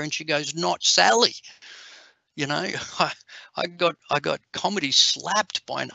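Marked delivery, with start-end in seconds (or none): 0.5-1.3 put-on higher, louder cheeky kid voice; a hint of a cheeky eight-year-old; little girl punchline. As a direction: land it like a proud little girl. Girl's punchline.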